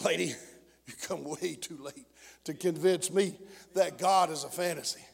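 low, very soft and measured reply; hushed retort. Retold or imitated. Hushed retold reply to unbeliever.

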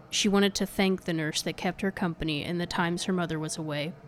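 hushed, measured ghost-story read; spooky podcast intro narration. A narrator's reading. Scripted cold-open ghost story narration.

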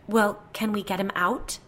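nervous, rising question; shaking voice. A narrator's reading. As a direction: ask with mild, understated fear. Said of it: "her voice shaking".

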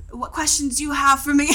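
lightly imitating the instructor, a touch Australian; mock instructor voice. Imitating the instructor asking the class for questions, lightly Australian, laughing. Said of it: "That was a spot on".

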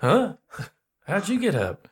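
high, loud startled question. Acted. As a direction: jolt awake and ask, surprised. Companion startled awake in character.

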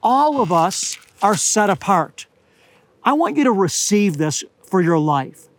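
normal talking voice

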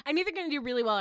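high, loud, laughing; laughing self-doubt. Real, not acted. Contestant taking back a boast, laughing self-doubt. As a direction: blurt it through a laugh.

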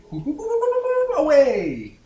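high, loud boops into a sung-out away; playful launch sound. Pretend. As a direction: boop the ship off in a high, loud voice. Playful spaceship launch noise.

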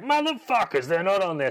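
high, indignant villain yell; mock angry outburst. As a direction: spit it out like a cheated villain. Hopper realises they tricked him.

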